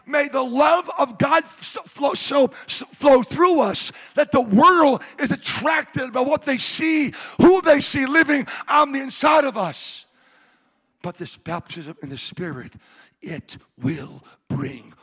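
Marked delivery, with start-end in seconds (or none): 0.1-10.1 loud, high, impassioned preacher's cry; fervent preaching. Acted. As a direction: pour it out over the congregation. Preaching at full volume.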